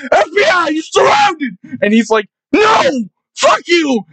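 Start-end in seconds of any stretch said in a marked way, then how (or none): 0.1-1.6 mock police shout. Cops shouting in retold play. 2.5-4.0 defiant mock yell. Shakir defiantly shouting in story.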